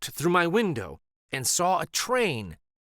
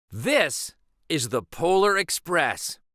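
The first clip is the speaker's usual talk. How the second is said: proud conductor; 2 semitones higher than usual. Acted. Conductor voiced in story.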